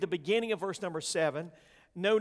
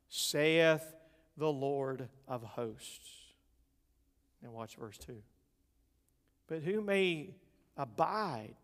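scripture reading; 2 semitones lower than usual. Acted. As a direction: read the verses like holy writ. Preacher reads scripture aloud.

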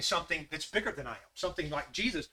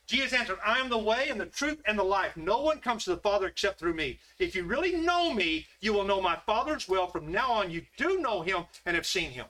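a slightly raised, earnest Bible reading; scripture reading. Acted. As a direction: read the words of Jesus out to the church. Reads scripture aloud.

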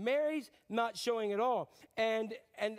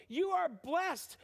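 emphatic declaration; 7 semitones higher, much slower than usual. Real, not acted.

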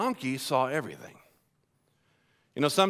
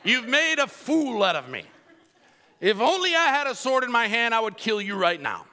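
Balaam's retort; 5 semitones higher than usual. Acted. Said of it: "Balaam answered the donkey".

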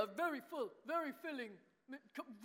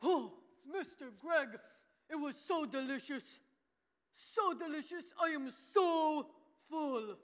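puppet voice; slower than usual. Acted. Puppet George voice.

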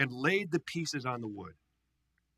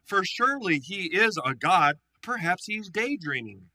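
scoffing; 4 semitones higher, 4 dB louder than usual. Acted. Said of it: "he scoffed".

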